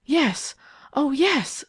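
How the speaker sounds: high, anxious admission; panting. A narrator's reading. Eileen confessing it is Ted, lightly acted panting. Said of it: "panted Eileen".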